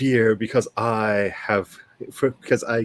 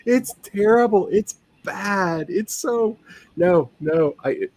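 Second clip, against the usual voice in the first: higher, hammed-up Valley Girl accent; bad Valley Girl; 6 semitones higher than usual. Mimicking a co-host's accent, a hammed-up Valley Girl. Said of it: "going to sound like a really bad Valley Girl".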